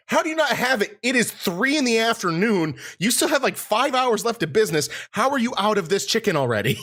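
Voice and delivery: high, incredulous mock complaint; disbelieving squeak of outrage; exasperated high. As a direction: pitch up in disbelief at the counter. Exasperated retold complaint at KFC.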